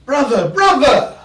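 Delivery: high, slow exasperated cop; mock weary officer sighing brother; mild put-on cop with a laugh. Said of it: "They were like".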